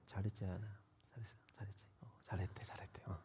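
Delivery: whispered praise, barely audible; soft whispered coaxing; hushed whisper. Pretend. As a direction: whisper it so the sleeping kid stays asleep. Mock praise to sleeping child.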